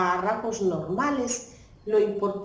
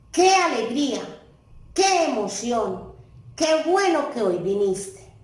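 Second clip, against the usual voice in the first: 1 exclaiming; 2 semitones higher than usual. Shown as a demonstration. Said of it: "el qué me sirve para exclamar sentimientos".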